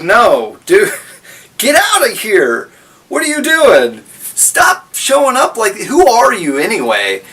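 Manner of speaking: laughing brush-off. Pretend. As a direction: shoo him away, half-laughing. Golu shooing the shaman.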